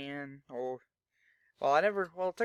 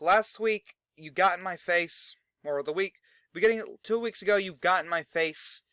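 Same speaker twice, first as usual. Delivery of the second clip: higher, louder callout; promo shouting; 4 semitones higher, 5 dB louder than usual. Retold or imitated. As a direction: yell the challenge down the ramp. Cage calls out Averno.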